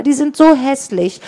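high-pitched, puffed-out remark; puffing. A narrator's reading. Ella to friends about the gang, puffing. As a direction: puff it out while on the run. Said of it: "schnaufte Ella".

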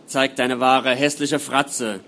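loud, slow commanding voice; stern command. Acted. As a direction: command the demon to show itself. Doctor confronts the demon.

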